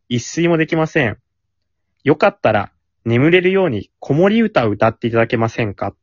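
measured radio letter reading; letter read-aloud. Acted. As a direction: read the listener's message out clearly. Reads a listener's letter. (お便りの朗読)

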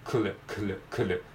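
くる as a tight k-l cluster, two consonants run together; consonant cluster drill. Shown as a demonstration. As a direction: drill くる as joined k and l sounds, repeated. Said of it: "子音が二連続で続いてますので".

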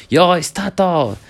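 high, drawn-out starter's call; mock start call. Mock start signal for relay.

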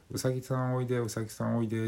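high sweet coaxing voice; sleep talking. Retold or imitated. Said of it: "って言ってるんですよ".

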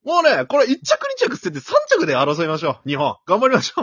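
loud, high, pumped-up announcer; rally Japan for third place; imitating Oda Yuji. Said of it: "織田裕二も言いよったんやけど". (織田裕二のまねで熱く)

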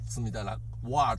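"What?" said as a short English word; English pronunciation. Shown as a demonstration. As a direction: demo "What?" in earnest English, not katakana. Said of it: "みたいな発音". (「What?」を英語っぽい発音で)

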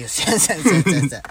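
rapid firm せんせんせんせんせん, each せん clipped and falling; insistent no-way denial; emphatic refusal. Real, not acted. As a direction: shut the idea down fast with repeated せん. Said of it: "絶対せんよ".

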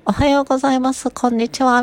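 high, light head-voice greetings; falsetto talking. Shown as a demonstration. Voice coach showing a trainee how to speak in falsetto. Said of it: "裏声で喋るみたいな".

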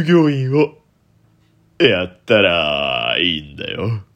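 slow, half-baked impression of a kindly older man. Host trying an impression of a man advising Shin-chan, failing. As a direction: drawl it out as a failed celebrity impression. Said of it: "低いだけで似てないですね".

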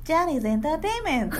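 sound logo imitation. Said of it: "サウンドロゴみたいな".

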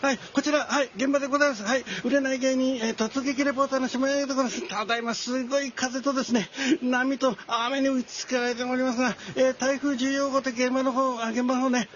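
field reporter voice. Pretend. Mock typhoon field reporter.

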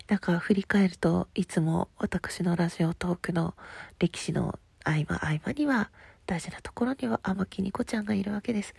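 stuffy nose from a cold; nasal voice. Real, not acted. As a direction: speak through a blocked nose. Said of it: "鼻声でごめんね".

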